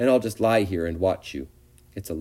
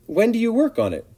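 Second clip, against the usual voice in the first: much higher pleading little pig; begging; 5 dB louder than usual. A narrator's reading. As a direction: plead like a frightened piglet. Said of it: "begged Wilbur".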